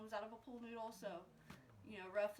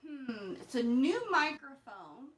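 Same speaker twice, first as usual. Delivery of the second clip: through a pipe; 12 dB louder, slower than usual. Real, not acted. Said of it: "Sounds like I'm talking through a pipe".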